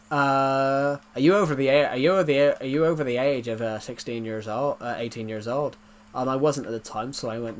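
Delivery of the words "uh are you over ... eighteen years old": lightly voiced Irish scam caller; imitating an Irish phone scammer; Irish accent. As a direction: stumble through a question in an Irish accent. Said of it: "I can do the Irish accent pretty well".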